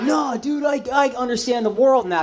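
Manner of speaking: lightly put-on young know-it-all; naive college student. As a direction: protest like a cocksure student.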